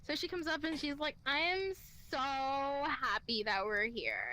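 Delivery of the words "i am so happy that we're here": slow, lower tipsy gushing; drunk friend. Retold or imitated. Drunk friend gushes to the group, slurry imitation. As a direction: imitate a drunk woman, dragging the words out.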